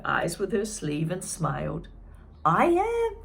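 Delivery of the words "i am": high, loud happy reply; eager yes. Acted. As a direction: answer with joy. June answers eagerly.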